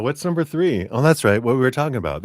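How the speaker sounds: high, fast mock puzzled self-quote; mock forgetful self. Channeler retelling her own mix-up, high and fast. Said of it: "I go".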